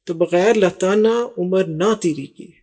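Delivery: slow repeat. Shown as a demonstration. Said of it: "پھر کہہ رہا ہے".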